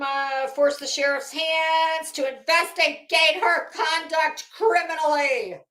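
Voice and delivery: sung-out dramatic reading; hammy stage actor. Pretend. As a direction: overdo it like a stage villain. Reading her letter mockingly.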